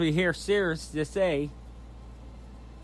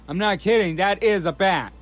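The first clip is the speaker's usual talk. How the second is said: excited; 5 dB louder than usual. Real, not acted. Amazed at bat creature in trailer.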